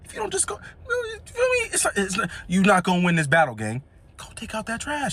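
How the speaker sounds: high, hushed plea to Freddie; mock urging. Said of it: "I'm like".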